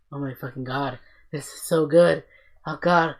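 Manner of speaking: fangirl screaming with joy; overjoyed, yelling at the screen; excited squeals. Retold or imitated. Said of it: "I was just so fucking excited".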